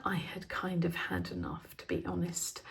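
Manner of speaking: soft confiding whisper, half to herself; whispered aside. Real, not acted. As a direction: let the admission slip out in a whisper. Confessing she'd had enough.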